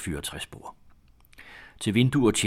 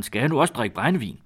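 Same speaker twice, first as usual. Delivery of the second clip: raised, higher and louder protest; indignant shout; 5 semitones higher, 5 dB louder than usual. A narrator's reading. Milkmaid refusing the old groom's brandy, indignant shout. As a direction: cry out the question in mild outrage. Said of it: "råbte Maren".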